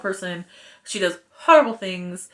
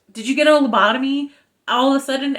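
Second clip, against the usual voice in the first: halting, clipped Shatner-style cadence; a mild Shatner impression; William Shatner; 4 semitones higher, 4 dB louder, faster than usual. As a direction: chop it up like Captain Kirk. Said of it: "I said that like William Shatner".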